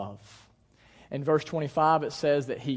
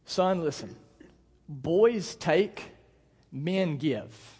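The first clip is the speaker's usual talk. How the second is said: measured, with weighty pauses; fatherly lesson, one short phrase at a time; father instructing son; much slower than usual. Retold or imitated. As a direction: spell out a lesson to a small child. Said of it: "here's what I told him".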